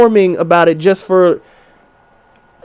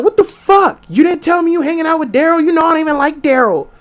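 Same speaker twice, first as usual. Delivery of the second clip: high-pitched mock girlfriend whine; nagging girlfriend; 8 semitones higher than usual. Man imitating his girlfriend questioning him about Daryl, in a high mock whine. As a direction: play the jealous girlfriend, high and accusing. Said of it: "you're like".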